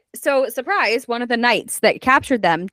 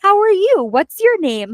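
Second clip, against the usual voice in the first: sweet and nice. Retold or imitated. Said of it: "so sweet and nice".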